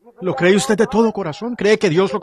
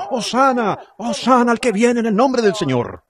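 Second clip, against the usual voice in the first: crowd shouting Hosanna; 5 semitones higher than usual. Retold or imitated. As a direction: call it out like the crowd at the gate. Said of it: "gritando a voz en cuello". (gritando Hosana como la multitud)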